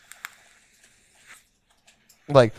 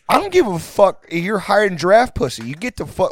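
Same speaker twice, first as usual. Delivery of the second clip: much higher, louder mock scream; screaming at him; 6 semitones higher, 3 dB louder than usual. Roommates screaming at friend to shower, loud mock yell. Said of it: "all of us are screaming".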